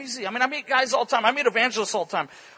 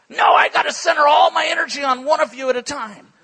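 retold bossy demand; 2 semitones higher, 6 dB louder than usual. Witch snaps at preacher.

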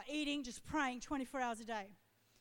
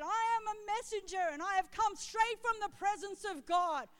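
lightly voiced angel's proclamation, pitched higher; a hint of a herald angel; angel messenger; 5 semitones higher than usual. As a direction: proclaim it as a heavenly messenger, mildly raised. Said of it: "like the sound of many rushing waters, that voice".

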